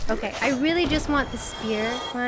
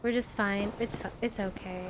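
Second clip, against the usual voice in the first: soft, low reassurance fading away; self-soothing; 3 semitones lower, 4 dB quieter than usual. Real, not acted. Gamer steadying herself mid-fight, soft and reassuring. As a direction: coax yourself calm quietly.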